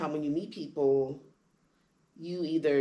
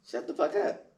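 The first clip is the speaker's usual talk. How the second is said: hushed, breathy put-down, rising at the end; muttered insult. Retold or imitated. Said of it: "And he's like".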